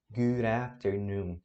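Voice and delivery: "Good afternoon" said slowly and clearly; teacher modeling the greeting slowly. Shown as a demonstration. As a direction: draw out "Good afternoon" for learners. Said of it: "slow model".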